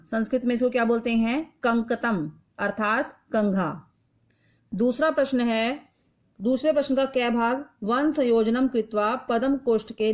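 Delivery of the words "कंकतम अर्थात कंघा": कंकतम stretched out slowly, syllable by syllable; slow and careful. Shown as a demonstration. Teacher answering her own question for pupils, slow and careful. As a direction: spell it out with your voice for young pupils. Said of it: "पदों का उच्चारण कीजिए".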